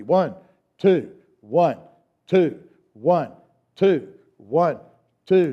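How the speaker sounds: measured count with gaps between beats; unhurried two-beat count. Shown as a demonstration. Teacher leading class in two-beat pattern, unhurried count. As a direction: count one, two steadily, leaving space after each. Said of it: "Now let's speed it up".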